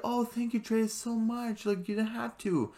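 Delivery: high, slowed, gushing thank you; high grateful voice. Retold or imitated. Vlogger imitating Beryl thanking Dreas, high and slow. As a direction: stretch it out up high, touched.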